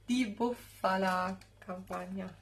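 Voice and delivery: laughs, then tries "di bufala Campagna" again; laughing retry. Real, not acted.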